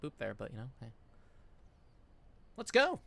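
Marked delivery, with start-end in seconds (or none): 2.6-3.0 high, loud victory shout; excited cheer. Real, not acted. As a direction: cheer the win. Cheering after the win.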